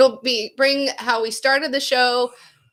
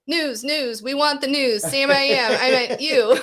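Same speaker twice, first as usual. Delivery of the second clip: mock Hurtling voice; 3 semitones higher than usual. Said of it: "I don't know why I said it that way".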